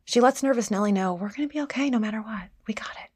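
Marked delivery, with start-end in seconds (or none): 1.2-3.1 soft, fast reassuring murmur, much softer; calm a frightened child softly; soothing reassurance. Retold or imitated. Gentle mama soothing nervous Nellie, softly reassuring.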